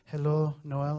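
loud, high phone greeting; mother-in-law. Retold or imitated. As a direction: imitate a mother-in-law calling out hello.

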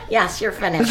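said back in an easy, laughing voice; relaxed, amused confirmation. Retold or imitated. Father telling his daughter she's done, laughing and relaxed. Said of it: "And he said".

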